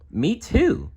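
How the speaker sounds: put-on very high, piping little boy; toddler voice. Little Tommy echoes his sister in a tiny high voice. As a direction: chirp it like a two-year-old.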